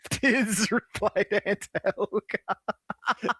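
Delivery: high, drawn-out British caricature; mock British accent. Echoing the gag amid laughter, mock British accent. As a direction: stretch it out in a silly British voice.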